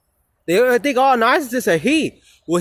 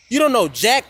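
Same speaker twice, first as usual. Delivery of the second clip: yelled, higher taunt; shouting; 4 semitones higher than usual. Real, not acted. Ranting at fake channels, shouting taunt. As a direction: bark it right at them.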